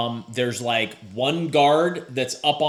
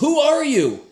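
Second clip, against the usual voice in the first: guard voice; 12 semitones higher, 5 dB louder than usual. Acted. Guard NPC voice.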